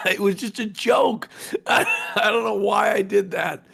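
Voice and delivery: laughing through the words; giggling embarrassed explanation. Real, not acted.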